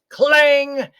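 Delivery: very high, loud yelp of pain; pained shout. A narrator's reading. Giant biting the frying pan, loud pained yelp. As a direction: yell as teeth break on iron. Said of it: "shouted Cuchulainn".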